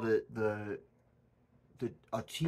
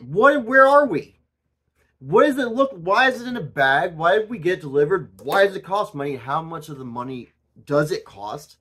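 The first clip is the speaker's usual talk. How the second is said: high, loud mock-furious questions; getting heated; 4 semitones higher, 9 dB louder than usual. Ranting about Temu items, loud and much higher. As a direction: shout the questions in pretend outrage. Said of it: "Got very heated".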